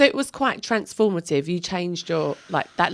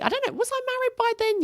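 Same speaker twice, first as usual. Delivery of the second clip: puzzled aside; faster than usual. Real, not acted. Self-question aside.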